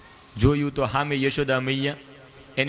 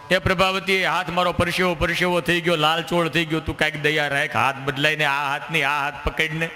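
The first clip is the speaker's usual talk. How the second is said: put-on pleading child; 2 semitones higher than usual. Kano pleading with the gopi.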